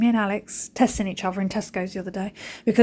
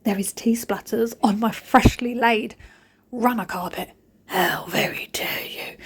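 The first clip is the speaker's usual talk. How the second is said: mock telling off; slower than usual. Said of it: "I was going".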